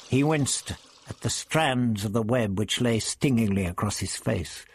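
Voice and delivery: ordinary delivery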